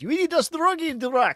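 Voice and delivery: put-on shrill, very high, very loud, booming shout. Player taking a turn in a roleplaying game, giving an in-character shout. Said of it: "Then I will shout".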